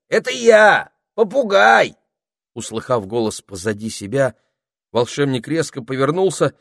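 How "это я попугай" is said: high, loud call; parrot calling out. A narrator's reading. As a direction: announce yourself loudly.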